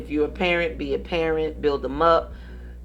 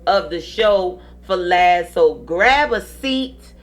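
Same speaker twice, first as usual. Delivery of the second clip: slow drawn-out host promo; announcer; slower than usual. Acted. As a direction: slowly build up the next segment. Show host teasing segment.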